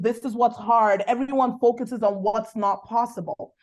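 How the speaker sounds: usual speaking voice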